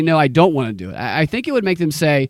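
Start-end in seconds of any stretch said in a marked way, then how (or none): none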